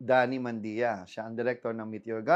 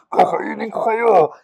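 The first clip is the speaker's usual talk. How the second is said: loud, menacing monster laugh and threat; a hungry monster closing in; 4 semitones higher, 10 dB louder than usual. Acted. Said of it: "radio drama".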